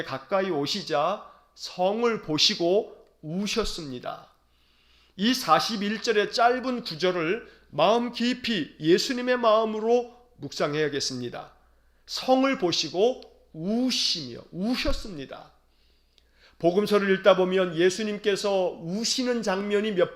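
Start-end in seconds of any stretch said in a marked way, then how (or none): 0.0-4.3 slow solemn reading. Acted. Reading the verse slowly. 12.1-15.5 slow solemn reading. Acted. Repeating the verse slowly.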